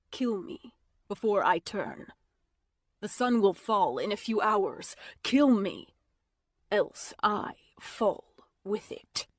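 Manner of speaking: hoarse whisper rising to a push; hint of desperate urging; urgent dying plea. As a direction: beg her, half whispered. Merrick begs her to kill him.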